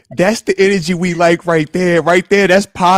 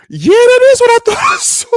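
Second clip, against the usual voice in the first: higher and louder, a laugh breaking into it; amused, incredulous confirmation; laughing disbelief; 4 dB louder than usual. Retold or imitated. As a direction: crack up at what you saw. Retelling a disbelieving replay moment.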